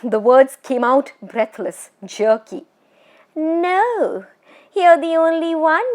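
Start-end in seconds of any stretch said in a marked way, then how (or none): 3.4-5.9 high, eerie teasing spirit voice; a tall witch toying with her prey; ghost woman. Acted. Ghost woman teasing the frightened Bishan Singh, eerie and high.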